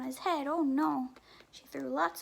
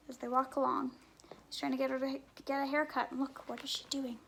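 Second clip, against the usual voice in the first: usual speaking voice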